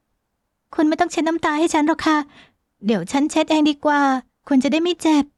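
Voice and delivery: tearful heroine. Acted. (เสียงหญิงสาวสูง พูดช้า)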